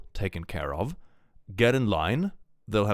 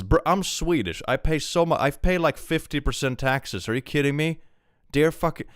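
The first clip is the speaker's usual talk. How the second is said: higher-pitched, incredulous protest; worked-up, disbelieving rant; indignant outburst; 6 semitones higher, 3 dB louder than usual. Real, not acted. Swedish streamer scoffs at chat asking about taxes, indignant.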